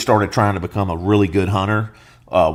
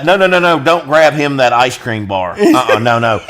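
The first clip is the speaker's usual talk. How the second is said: mock parent; 5 semitones higher, 4 dB louder than usual. Parent stopping someone.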